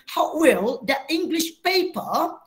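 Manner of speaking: a light British accent, slow, rising on "paper"; a slow, light British take of "How will the English paper?"; British-sounding English. Shown as a demonstration. Teacher showing students the British-sounding version to avoid. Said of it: "Dia tak bunyi".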